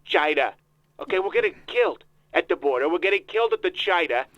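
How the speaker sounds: put-on voice of a self-important politician; Donald Trump voice. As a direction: interrupt like a pompous candidate. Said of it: "Mister Trump".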